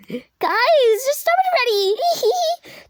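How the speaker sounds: high giggling plea, then breaking character; laughing. Acted. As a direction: crack up while pleading. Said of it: "Just kidding".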